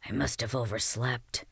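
very soft whisper of shame. Acted. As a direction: breathe it out in a whisper. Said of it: "he whispered".

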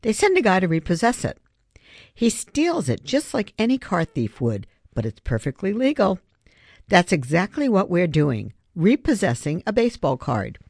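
quick, insistent case made with conviction; arguing. Acted. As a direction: press the point, slightly fast. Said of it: "Griffin argued".

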